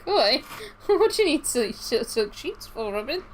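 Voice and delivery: high, giggly and incredulous; laughing disbelief. Retold or imitated. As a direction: laugh through the question. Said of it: "I was like".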